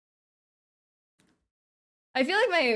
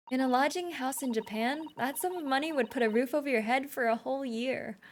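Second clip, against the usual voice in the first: soft, lightly raised character voice; game character remarking; 4 semitones higher, 3 dB quieter than usual. Acted. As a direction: read it as a gently marvelling companion.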